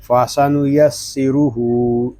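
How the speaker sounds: "फासानु यस्सिरुहु" with only the final हु held long; only the end stretched. Shown as a demonstration. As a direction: recite "फासानु यस्सिरुहु", short syllables, long last हु. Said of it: "हा को सिर्फ हम खींच कर पढ़ेंगे". ("फासानु यस्सिरुहु" में सिर्फ आख़िरी हु खींचकर)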